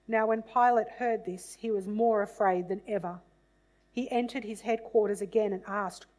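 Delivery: measured, dramatic Bible reading voice; scripture reading. A narrator's reading. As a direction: read the passage aloud as solemn scripture. Reads the Passion scripture aloud.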